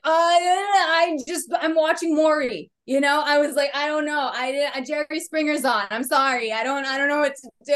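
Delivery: put-on high, flustered kid voice fumbling excuses; eight-year-old me. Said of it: "I'm like".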